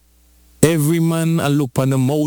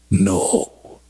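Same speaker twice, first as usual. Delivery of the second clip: slow firm no; 8 semitones lower than usual. Acted. Preacher voicing mercy refusing.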